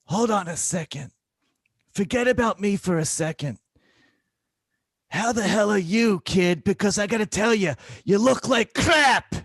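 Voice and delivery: imitating a blunt old patient; feisty old lady. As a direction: tease the burnt-out doctor. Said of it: "patient scolds tired doctor".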